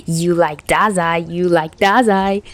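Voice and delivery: slow, sing-song playground taunt; childish taunt. Acted. Tachihara taunting Chuya, childish sing-song. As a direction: chant it like a five-year-old. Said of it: "taunted like the five-year-old".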